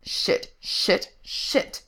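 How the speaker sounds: whispered, voiceless cursing; muttered curse. A narrator's reading. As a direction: mutter each word under your breath. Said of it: "Frank muttered".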